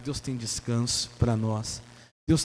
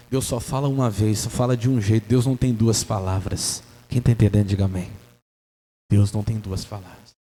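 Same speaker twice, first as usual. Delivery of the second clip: forceful preaching; 4 semitones lower, 6 dB louder than usual. Acted. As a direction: hammer the truth to the church.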